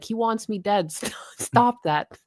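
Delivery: imitating a friend's laughing panic, high and slow; hammed-up scared whine, stretched out; mock panicked plea. Streamer teasing his cohost by mimicking him. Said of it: "and you were like".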